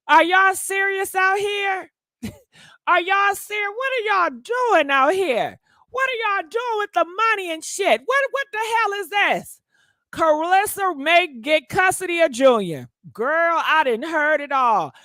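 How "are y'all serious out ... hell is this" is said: higher, slowed disbelief, drawing out each question; can't believe what she's reading; incredulous disbelief. Real, not acted. Host reacting to the news that the friend is homeless, incredulous.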